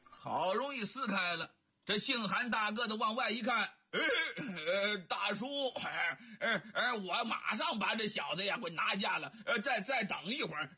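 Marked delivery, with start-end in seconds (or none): 3.9-10.7 talking through laughter mid-brawl; chuckling as he pins his man; laughing. Acted. 韩大个子打架中边笑边说. (边笑边说)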